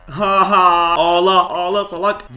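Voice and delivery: loud gloating jeer; mocking taunt. Real, not acted. Player gloats at the beaten mob, loud mocking taunt. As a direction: rub it in, crow over the enemy.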